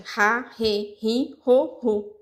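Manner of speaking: "Ra, re, ri, ro, ru" with a strong guttural R; strong R demo. Shown as a demonstration. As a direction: show the strong R syllable by syllable. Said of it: "Qual som forte?".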